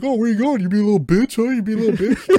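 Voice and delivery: high, sing-song taunt; mock taunting brat. Retelling the annoying alien kid, high mocking taunt. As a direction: needle him like a smug kid.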